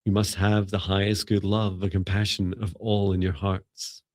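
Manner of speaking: measured, evenly pitched opening prayer; spoken invocation. Acted. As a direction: set the sacred space with steady, deliberate phrases.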